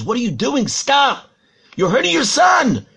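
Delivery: acted outraged bystander's shout; alarmed protest. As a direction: burst in to stop someone doing harm. Stranger confronts the father, acted.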